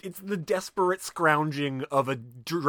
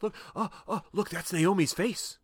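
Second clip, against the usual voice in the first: just noticed it; 4 semitones higher than usual. Retold or imitated. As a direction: imitate feigned surprise. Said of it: "Like, he just noticed it".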